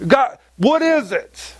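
mildly exasperated plea to God; frustrated. Retold or imitated. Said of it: "sometimes I get frustrated".

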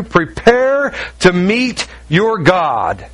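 emphatic, declaimed Bible reading; scripture reading. Acted. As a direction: proclaim the prophet's warning. Reads scripture aloud to congregation.

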